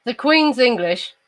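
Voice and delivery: posh British Queen's English accent, slowly measured; careful Received Pronunciation. Shown as a demonstration. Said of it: "sounds like this".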